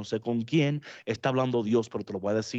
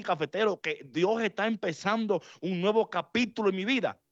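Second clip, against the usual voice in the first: higher, fast, incredulous protest; disbelieving listener; 3 semitones higher, faster than usual. Acted. Preacher voicing a grieving listener who doubts him, incredulous. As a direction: voice the hurt listener pushing back in disbelief.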